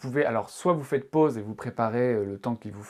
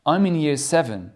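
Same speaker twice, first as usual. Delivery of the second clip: louder, slow schoolboy self-introduction; child's introduction; 7 dB louder, slower than usual. Acted. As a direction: introduce yourself like an eleven-year-old. Teacher reads character as Adrian. (Adrian, écolier, se présente fort et lentement)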